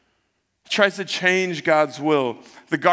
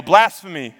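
mock yell, a little louder; retold yell; 6 dB louder than usual. Accusers hear Jesus' answer at trial, retold yell. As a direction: cry it out as an accusation, half-full volume. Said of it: "and they yell".

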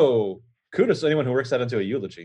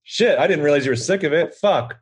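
a cocky, mocking virus character; cute germ voice; 4 semitones higher, 3 dB louder than usual. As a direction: play the virus, cheeky and smug. Friend voices the virus talking back.

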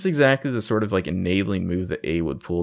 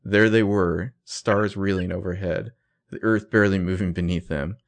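measured, mildly dramatic book narration; purple prose reading; 2 semitones lower than usual. Acted. Co-host reads the author's purple prose to mock it, mildly dramatic. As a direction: read it out like overwrought romantic prose. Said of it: "reading her some of Ezra's purple prose".

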